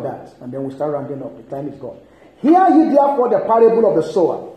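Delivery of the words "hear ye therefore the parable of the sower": declaimed scripture reading. Real, not acted. Reads scripture aloud to congregation.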